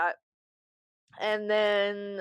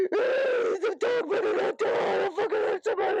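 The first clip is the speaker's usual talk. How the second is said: mock threatening outburst; 10 semitones higher, 3 dB louder than usual. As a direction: wail a threat at the screen in mock outrage. Acting out reaction to movie ad.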